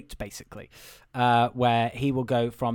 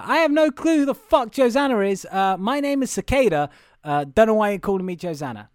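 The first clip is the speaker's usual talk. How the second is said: higher, louder mock indignation; retold indignant correction; 7 semitones higher, 6 dB louder than usual. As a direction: put her foot down, acting out the retort.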